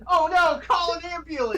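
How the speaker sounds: laughing, shouting for an ambulance; laughing mock panic. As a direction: fake alarm through laughter. Joking cry for help.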